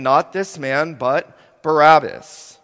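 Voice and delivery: crowd crying out. Acted. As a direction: yell it like the mob. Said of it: "They cried out".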